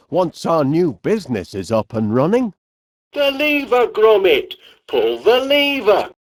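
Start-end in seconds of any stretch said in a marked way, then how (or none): 3.1-6.1 urgent call. Acted. Urgent call to pull lever.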